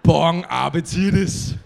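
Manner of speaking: loud laughing "Bon appetitis"; loud grand sign-off. Acted. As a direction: belt it out proudly like a triumphant chef.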